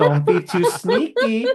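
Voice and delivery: slow, lightly voiced Tommy Wiseau scolding; a hint of Tommy's odd, fatherly lecture, drawn out; imitating Tommy. Retelling Tommy's scolding reply.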